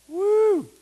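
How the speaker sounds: high, loud excited whoop; preacher whooping for joy at the verse; joyful whoop. Real, not acted. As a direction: let out a joyful shout of praise.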